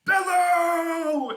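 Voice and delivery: hammed-up warlord bellow; chief's bellow. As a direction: hold it out like an orc rallying his horde. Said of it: "and then he goes".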